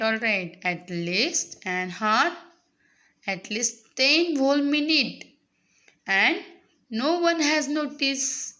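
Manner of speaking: very slow, phrase-by-phrase reading; teacher's slow read-aloud. Acted. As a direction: read it out slowly for young learners, pausing between phrases. Reads the monologue aloud to students. (सावकाश, थांबत थांबत वाचन)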